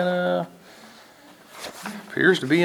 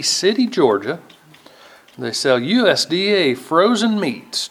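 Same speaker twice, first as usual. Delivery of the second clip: ad read. Acted. Council chair reading a vendor permit, playful ad read. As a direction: read it like a hometown radio commercial. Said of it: "they can use these, uh, minutes as a commercial".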